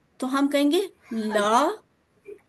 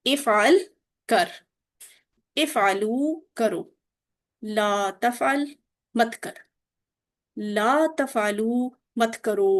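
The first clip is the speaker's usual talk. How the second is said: slow drill; slower than usual. Shown as a demonstration. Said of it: "मेरे इशारे भी गौर करें".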